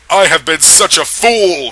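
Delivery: overplayed despair; mild mock scream. A narrator's reading. Edward regretting the night with her, mock scream. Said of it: "he screamed".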